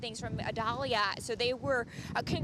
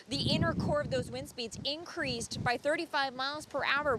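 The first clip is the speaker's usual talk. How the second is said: raised voice over gusting wind; shouting over wind. Real, not acted. Reporter live in hurricane winds.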